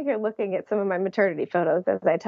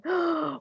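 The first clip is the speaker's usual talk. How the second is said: gasp; 8 semitones higher, 4 dB quieter than usual. Retold or imitated. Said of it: "almost out of breath".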